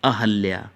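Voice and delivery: अहल्या said clearly for notes; teacher dictating अहल्या; correct form. Shown as a demonstration. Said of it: "note कर लीजिए".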